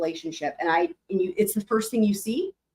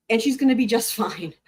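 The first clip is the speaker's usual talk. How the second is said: laughing. Retold or imitated. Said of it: "he's like".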